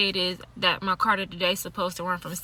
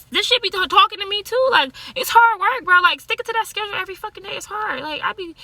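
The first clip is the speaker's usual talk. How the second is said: exasperated venting; 10 semitones higher, 4 dB louder than usual. Real, not acted. Venting about sticking to his schedule.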